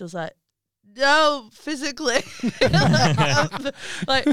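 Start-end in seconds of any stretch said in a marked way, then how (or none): 0.9-2.2 high insistent no; emphatic no. Retold or imitated. Correcting the midwife's mistake, insistent. 2.4-4.3 laughing, slightly higher. Real, not acted. Telling friends about the birth while laughing.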